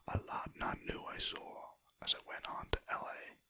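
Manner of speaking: a hint of a terrible American accent, whispered; mock a US accent, badly. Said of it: "That was a terrible American accent".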